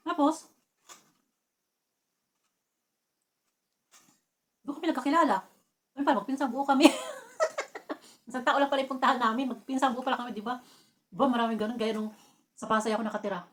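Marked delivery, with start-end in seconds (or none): 0.1-9.5 louder, higher punchline delivery; spring the twist on them; excited reveal. Retold or imitated. Revealing the stranger was her first cousin, excited.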